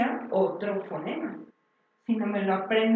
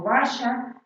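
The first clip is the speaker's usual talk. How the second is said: nonsense word said slowly; 5 dB louder than usual. Shown as a demonstration. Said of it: "como si te hablaran con puras palabras como".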